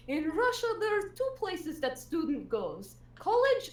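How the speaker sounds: put-on slow, dry Russian accent with a pause; Russian teacher. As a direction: deliver the verdict to the parents deadpan. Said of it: "she was like".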